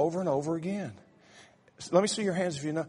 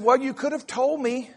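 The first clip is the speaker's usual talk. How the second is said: scolding wife; 5 semitones higher, 4 dB louder than usual. Retold or imitated. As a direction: lecture him like the wife. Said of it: "She said".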